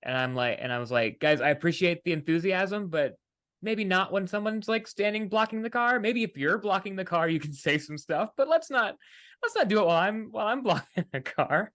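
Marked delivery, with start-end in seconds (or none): 1.2-11.7 retold tactful plea. Captain to overeager picketers while blocking a car, high placating plea. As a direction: gently talk the crowd down in a higher voice.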